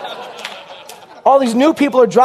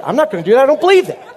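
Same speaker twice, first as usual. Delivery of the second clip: stubborn interpreter; 5 semitones higher, much faster than usual. Retold or imitated. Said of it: "argument mid sermon".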